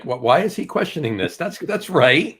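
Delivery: puzzled, rising to insistence; stretched, insistent "that's right"; baffled questioning. Acted. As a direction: wonder why anyone would question it. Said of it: "you'll be like".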